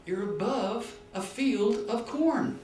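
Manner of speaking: shouted reply. Retold or imitated. Cyclist answers the balloonist.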